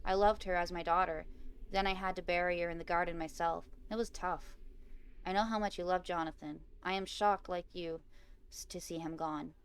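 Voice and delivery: measured read-aloud of a game story; story narration. A narrator's reading. Player reading Bob's condolences aloud, measured story narration. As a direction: read it out evenly, pausing between phrases.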